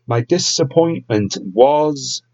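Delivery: hissing every s like a snake; slow, with long snaky s sounds; drawn-out s like a snake. Real, not acted. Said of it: "sound like a snake".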